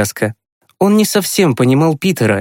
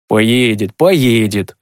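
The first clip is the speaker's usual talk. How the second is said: calm father's voice, barely lowered; reassuring; much slower than usual. Acted. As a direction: gently settle an anxious son. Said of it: "успокоил Тимкина папа". (успокаивающе, спокойным отцовским голосом)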